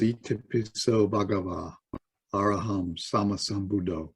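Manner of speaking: quiet, measured recital of a Pali chant; soft Pali recitation. Acted. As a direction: recite the Pali softly, phrase by phrase.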